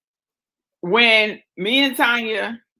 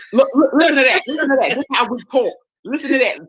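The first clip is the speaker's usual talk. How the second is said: teasing imitation of a New York accent; mock her New York accent, pitched up; mimicking New York accent; 4 semitones higher, much faster than usual. Mocking co-host who denies her accent, imitated New York accent. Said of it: "New York all day".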